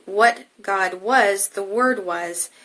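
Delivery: "What God was, the Word was" slow and loud, weight on "was"; slow emphatic. Shown as a demonstration. Teacher brings out the force of the verse, slow and emphatic. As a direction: lean hard on "was" in each half, drawn out. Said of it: "how one translation brings out this force".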